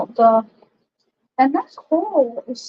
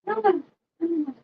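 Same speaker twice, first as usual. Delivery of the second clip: dismayed; 5 semitones higher, 6 dB quieter, faster than usual. Real, not acted. Paint goes wrong, dismay.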